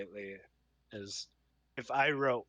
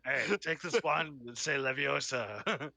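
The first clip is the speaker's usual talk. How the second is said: Rick Sanchez voice; 3 semitones higher than usual. Retold or imitated. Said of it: "a Rick and Morty kind of feel".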